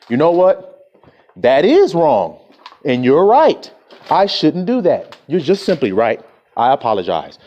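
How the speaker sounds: a gently voiced humble apology. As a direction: say it meekly, owning the fault.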